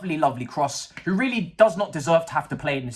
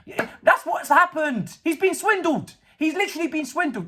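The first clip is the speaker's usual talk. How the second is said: mock sympathy; 9 semitones higher than usual. Real, not acted. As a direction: tease him for being swindled. Mocking the owner's purchase.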